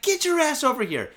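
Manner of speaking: high-pitched mock order; retold angry command. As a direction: act out hollering a thief over to you. Orders the thief over.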